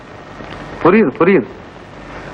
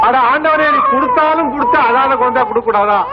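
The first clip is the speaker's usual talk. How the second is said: exasperated plea; 7 semitones higher than usual. Acted. Despairing at crying baby.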